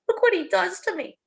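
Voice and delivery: high, tearful plea; a tipsy half-sob; starting to cry. Acted. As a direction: drunk wife showing bruises, weepy. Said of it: "She starts to cry".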